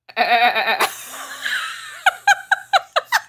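bleating like a goat; goat impression. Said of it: "I'm really good about a goat impression".

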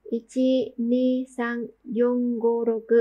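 Japanese counting, steady and spaced; counting strokes again. Shown as a demonstration. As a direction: count six strokes aloud. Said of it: "Có sáu nét".

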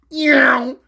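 loud, quick yow effect; imitated zoom. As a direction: voice something zipping away. Imitates object flying off.

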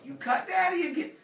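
high, loud scolding; outraged wailing dad. Acted. Wounded father scolds the kids.

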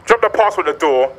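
loud, worked-up rules; angry ultimatum. Retold or imitated. Laying down delivery rules to flirting driver, indignant.

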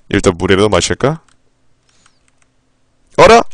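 ordinary talk

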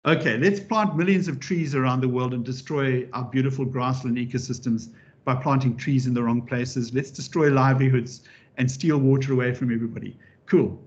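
mock-earnest sarcastic proposal, mildly played; facetious. Presenter jokingly pitching tree planting to the audience, facetious. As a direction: reel off absurd plans in deadpan jest. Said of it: "I'm being very facetious".

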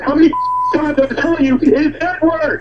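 exasperated. Real, not acted. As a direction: correct them as if fed up. Customer corrects his name repeatedly.

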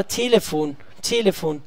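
Telefon with TE stressed; careful model of Telefon, TE strongest and falling after; first-syllable stress. Shown as a demonstration. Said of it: "sempre na primeira sílaba".

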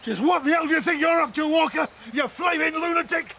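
angry shout. Acted. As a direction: yell at him in fury. Confronting a trespass accuser.

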